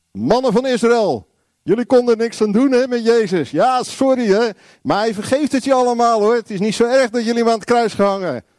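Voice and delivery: high-pitched, hammed-up reassurance; mock apologetic speech. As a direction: excuse them with exaggerated leniency. Parody of Peter's speech, excusing them.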